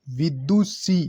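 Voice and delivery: विदुषी slowly, final "see" drawn out; long final vowel. Shown as a demonstration. Teacher showing the long vowel: विदुषी drawn out. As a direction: stretch the last ee of विदुषी. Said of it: "सी बड़ा आएगा".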